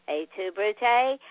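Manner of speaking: slow, ominous theatrical delivery; dramatic Caesar tone. Shown as a demonstration. Host quoting Julius Caesar to listeners, slow and theatrical. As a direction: declaim it like a betrayed Caesar on stage. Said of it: "when I say it in that tone of voice".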